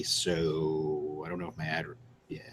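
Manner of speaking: hushed, slow whisper. Real, not acted. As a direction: drop to a whisper. Worried aside.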